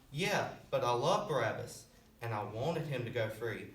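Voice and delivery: low, softened reassurance; gentle insistence. Acted. God answering the preacher's objection, gently insistent.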